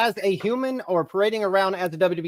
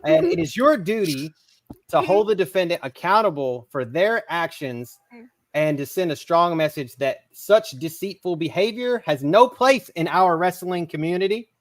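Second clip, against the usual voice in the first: mock courtroom closing argument; formal speech; 3 semitones lower than usual. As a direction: address the jury like a lawyer. Mock closing statement to jury.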